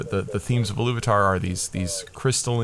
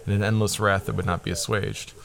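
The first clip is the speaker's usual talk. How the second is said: reading aloud. Shown as a demonstration. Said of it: "I'm just reading down here".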